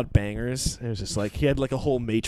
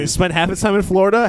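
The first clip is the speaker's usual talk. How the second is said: hard sell ad; 5 semitones higher, 7 dB louder than usual. Pretend. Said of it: "like a car salesman".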